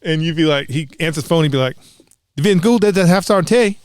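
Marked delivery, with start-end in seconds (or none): 2.4-3.8 put-on Terry's southern hillbilly accent. Sergeant answering the phone at Division School, loud southern hillbilly accent. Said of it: "he had a very southern hillbilly accent".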